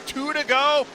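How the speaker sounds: high, loud, building final-lap call; rising finish-line play-by-play; excited race call. Acted. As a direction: ride the finish like the crowd is on its feet.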